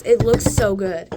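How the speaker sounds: loud gushing squeal; excited squeal. Real, not acted. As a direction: shout it out with pride. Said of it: "I got a little excited".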